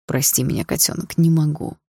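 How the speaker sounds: sighing. Acted. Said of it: "вздохнул папа".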